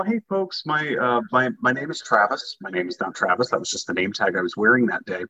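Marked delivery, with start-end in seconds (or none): 0.0-2.6 higher, cheery tour-guide greeting; friendly announcer voice. Retold or imitated. Train driver greeting his passengers, cheery and higher. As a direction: welcome the passengers brightly. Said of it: "I just tell them".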